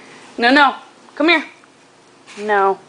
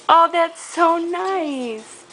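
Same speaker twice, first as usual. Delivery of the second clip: slow, drawn-out, higher gushing; tender praise; 6 semitones higher, much slower than usual. Real, not acted. Praising baby's kiss.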